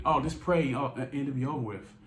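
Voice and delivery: high dismissive mock of easy advice; sing-song send-up of the typical religious line; parodying the typical one word religion thing, mocking and high; mocking cliche. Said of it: "typical one word religion thing".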